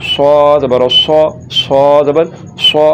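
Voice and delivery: सौ thick and rounded, like "so"; full-mouthed emphatic स्वाद; heavy S. Shown as a demonstration. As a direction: spell out सौ with a heavy s. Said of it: "मोटा करके पढ़ना है".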